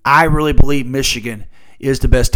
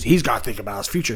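mocking pundits; 6 semitones lower, 9 dB quieter, faster than usual. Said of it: "people get on networks and say".

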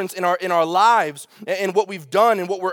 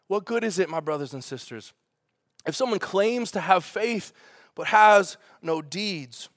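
softer, slower, compassionate reading; gentle; 3 dB quieter than usual. Shown as a demonstration. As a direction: read it gently like a caring brother. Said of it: "It's compassionate. It's gentle".

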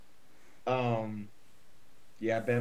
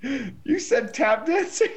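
after laughing hard; 13 semitones higher, 4 dB louder, much slower than usual. Real, not acted. Laughing at friend's outburst.

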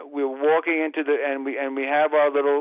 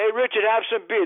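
rowdy fan; 6 semitones higher than usual. Retold or imitated. Fans passing beer.

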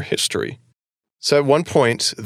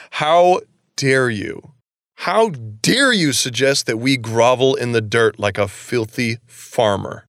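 slow, indignant mock anger; retold angry outburst; slower than usual. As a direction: drag out each word, offended. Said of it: "is super pissed at Susan".

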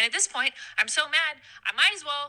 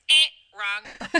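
loud buzzer noise, then verdict; mock quiz buzzer; 2 semitones lower, 7 dB louder than usual. Correcting the friend's medieval guess, mock buzzer. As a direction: buzz the answer out loudly. Mimics a wrong-answer buzzer.

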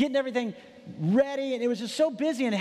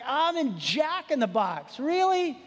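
slow, then a high incredulous "really?"; exasperated disbelief; 6 semitones higher, slower than usual. Retold or imitated. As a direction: let the frustration peak on the last word. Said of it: "and I'm frustrated".

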